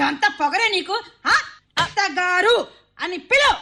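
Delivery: hurt and indignant, half crying; tearful scolding. Acted. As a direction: scold through tears, rising at the end. Scolded mother-in-law in tears. (ఏడుస్తూ తిట్టడం)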